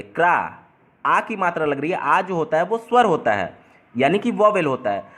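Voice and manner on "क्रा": "क्रा" as one open kraa, ending on long aa; sounded-out syllable. Shown as a demonstration. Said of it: "क के नीचे र और आ की मात्रा". ("क्रा" में सिर्फ़ आ की लंबी ध्वनि)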